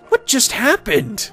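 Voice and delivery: high, slow baffled question; acted bewilderment. Pony stunned by Pinkie's speed, bewildered.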